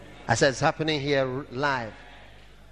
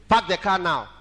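voice of God; 2 semitones higher, 5 dB louder than usual. Retold or imitated. Divine voice interrupts singing.

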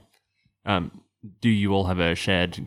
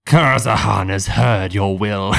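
booming telepathic voice; 5 dB louder, slower than usual. Acted. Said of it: "a telepathic voice that booms in your head".

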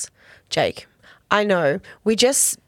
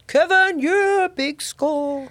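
calling Kevin; 7 semitones higher, much slower than usual. Retold or imitated.

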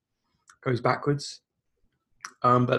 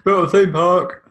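laughing; 4 semitones higher, 4 dB louder than usual. Acted. Mocking quip with laugh.

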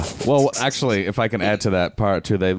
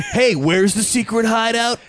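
goofy character voice; 4 dB louder than usual. Pretend. Reenacting movie characters.

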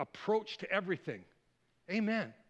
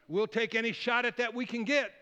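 lightly voiced impressed king, louder and drawn out; a hint of an eager king, punching the words; 4 semitones higher, 4 dB louder than usual. King sizing up the young challenger, lightly acted and emphatic. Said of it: "So then the king says".

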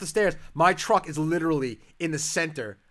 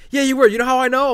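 loud, raised-pitch challenge; retold angry father; 8 semitones higher, 9 dB louder than usual. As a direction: confront him like a yelling dad. Father accuses son, retold.

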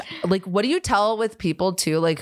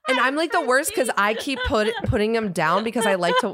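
laughing; 6 semitones higher than usual. Real, not acted. Laughing through own confession.

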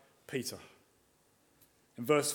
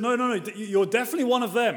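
put-on accusing servant girl; 6 semitones higher, faster than usual.

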